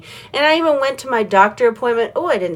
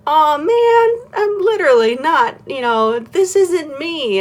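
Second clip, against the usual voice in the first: inner voice; 8 semitones higher, slower than usual. Retold or imitated. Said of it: "my inner me was like".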